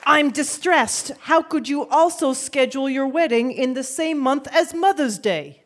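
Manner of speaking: overacted distress in Brooklyn; Brooklyn accent. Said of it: "I know the acting throws people off".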